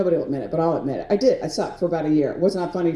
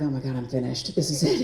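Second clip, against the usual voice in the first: panic; 7 semitones lower, 5 dB quieter than usual. Retold or imitated. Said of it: "I'm like".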